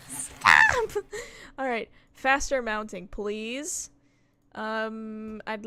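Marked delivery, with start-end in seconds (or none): 0.1-1.0 high laughing yell of stop; laughing shout. Real, not acted. Streamer laughing as she yells at the game.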